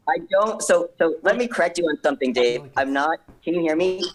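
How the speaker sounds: thin, distant headset mic sound; muffled audio through a headset mic. Real, not acted. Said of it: "audio is not that good with that headset".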